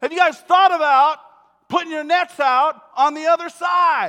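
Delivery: very loud, high yelled call. Retelling a stranger on shore yelling advice: imitating someone yelling. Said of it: "he yells back and he says".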